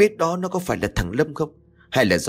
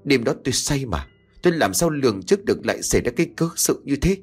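angry yell; 2 semitones higher, faster than usual. Acted. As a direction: roar at your nagging wife. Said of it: "quát lớn".

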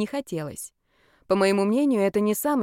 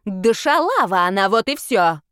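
louder, coarse spat-out insult; 5 dB louder than usual. Acted. Brawler insulting the girl to the crowd, loud and coarse. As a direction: spit the slur out.

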